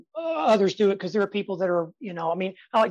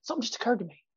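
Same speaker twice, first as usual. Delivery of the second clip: hushed stage reveal; 2 semitones higher, 7 dB quieter, faster than usual. Shown as a demonstration. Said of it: "I stop it and make sure they hear it".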